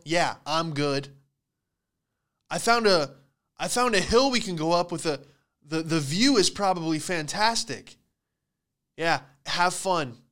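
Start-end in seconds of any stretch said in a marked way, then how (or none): 2.5-8.0 eager friend. Retold or imitated. Friend voiced pitching a hill.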